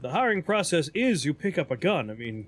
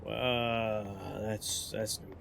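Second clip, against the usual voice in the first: deadpan low voice; 10 semitones lower, 9 dB quieter, much slower than usual. Pretend.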